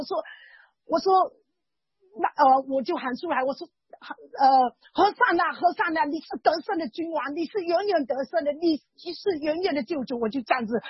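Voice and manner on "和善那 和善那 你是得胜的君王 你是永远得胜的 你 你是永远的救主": 大声呼求. Retold or imitated. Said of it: "很大声的这样子喊出来".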